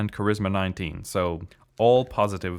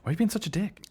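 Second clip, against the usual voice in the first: rude dragon voice; 8 semitones higher, faster than usual. Pretend.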